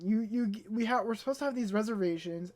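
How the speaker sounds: tripping over the words; stammer, restarting the words; stuttering. Real, not acted. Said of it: "you guys hear me stuttering".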